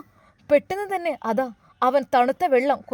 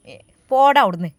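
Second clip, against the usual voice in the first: louder, sharp get-away-from-here; angry dismissal; 6 dB louder than usual. Acted. Woman angrily telling the boy to get lost, louder. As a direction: shoo him off in anger. Mother-in-law snaps at grandson.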